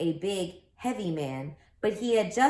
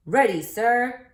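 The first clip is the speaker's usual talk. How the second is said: loud, slow, higher shout of ready; 4 semitones higher, 7 dB louder than usual. Acted. Stewart shouts his answer to the referee, loud and slow. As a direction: snap to it and shout back. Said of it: "shouted Stewart".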